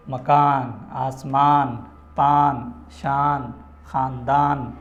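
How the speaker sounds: full, audible n closing مکان، آسمان، پان، شان، خاندان; word by word, finish each on a distinct n; clear final n. Shown as a demonstration. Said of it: "واضح کر کے دکھائی جاتی ہے نون ظاہر".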